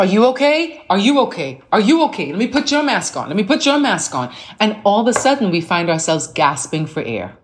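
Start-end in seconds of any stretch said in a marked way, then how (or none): 0.0-4.3 anxious, pitched-up, rushing helper; frantic worry. Retold or imitated. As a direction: fuss over everyone in a panic. Frantic woman rushing to help.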